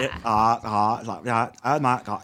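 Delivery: one-vowel valley speak. Retold or imitated. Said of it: "when it's all one single vowel sound".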